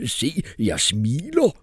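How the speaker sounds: very slow, far-off voice; slow forced cheer; stiff old mercenary. A narrator's reading. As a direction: drag each word out deadpan. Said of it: "sagde hr. Vibrant".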